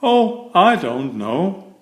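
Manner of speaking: slow, easygoing grin in the voice; grinning. Acted. Mister Clumsy answering Mister Fussy with a careless grin. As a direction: shrug it off with a smile. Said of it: "grinned Mister Clumsy".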